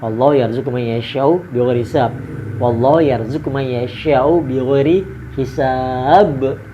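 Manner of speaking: Quranic recitation. Shown as a demonstration. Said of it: "Sebelum itu baca dulu tuh". (bacaan ayat yang pelan dan lantang)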